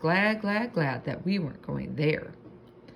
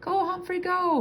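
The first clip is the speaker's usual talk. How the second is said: 1 excited cheer. A narrator's reading. Hamster cheering himself on.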